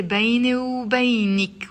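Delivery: وبينك ending in "-ik"; feminine ending. Shown as a demonstration. Teacher shows the form said to a girl, feminine -ik ending. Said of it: "with the ik".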